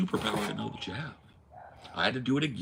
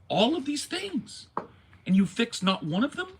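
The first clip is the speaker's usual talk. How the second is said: indignant; 11 semitones higher, 3 dB louder than usual. Retold or imitated. Angry rant about landlord.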